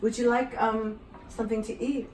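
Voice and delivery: imitating the owner's Japanese accent; mock Japanese accent. Japanese owner offering food, mock Japanese accent. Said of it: "and she said".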